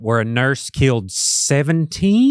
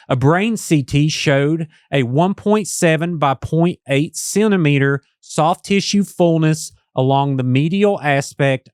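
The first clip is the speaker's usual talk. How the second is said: telemarketer voice; 4 semitones higher than usual. Acted. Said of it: "I'm gonna do my telemarketer voice".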